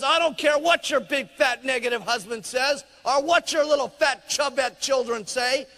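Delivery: high, loud firm pep talk; a lightly voiced pushy coach. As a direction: boss her back into the kitchen. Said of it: "he says".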